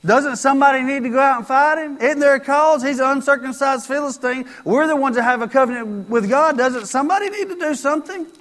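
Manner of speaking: David pushes back hard against his brother, voice up; indignant David. Acted. David answers his angry brother.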